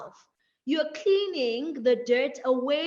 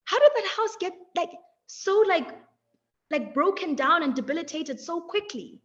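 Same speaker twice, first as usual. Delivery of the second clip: higher, amazed wondering; mock astonishment; 3 semitones higher than usual. Wondering aloud at a ruined house, mildly amazed. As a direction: gasp at how fast it fell apart. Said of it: "where it's like".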